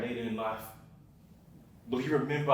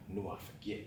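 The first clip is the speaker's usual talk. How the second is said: much softer, lower, defeated; barely audible; 6 semitones lower, 15 dB quieter than usual. Acted. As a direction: let it fall away. Bitter aside about ex.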